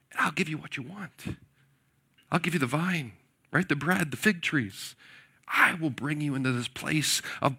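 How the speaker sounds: wheedling tempter; sweet-talking enemy envoy; persuasive coaxing. Retold or imitated. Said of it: "speaking very persuasively".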